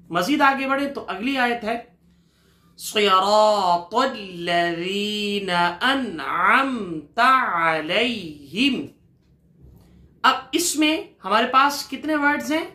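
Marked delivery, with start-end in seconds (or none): 2.8-8.9 slow, melodic Quranic chanting; slow tajweed recitation. Shown as a demonstration. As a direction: recite the verse slowly and reverently. Teacher recites next verse.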